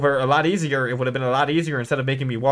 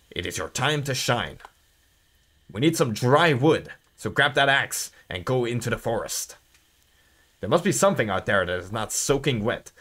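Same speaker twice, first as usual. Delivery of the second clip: put-on stern old watchman; 3 semitones lower, 4 dB quieter than usual. Voices game character giving orders.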